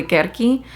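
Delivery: "Kerki" with hard k sounds; proper pronunciation. Shown as a demonstration. Teacher giving the technically proper name, careful pronunciation. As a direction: say "Kerki" with k in both syllables, never s. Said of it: "I think the proper pronunciation".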